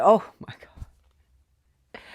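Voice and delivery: slow, whispered retold reaction; whispered awe. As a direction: whisper it slowly, as if overwhelmed. Retells her overwhelmed reaction.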